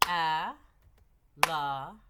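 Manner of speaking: "Elephant" loud and very slow in three separate beats; "Elephant" chopped loudly into syllables with wide pauses; clapped syllables. Shown as a demonstration. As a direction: punch out "Elephant" as "El... e... phant". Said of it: "With the claps".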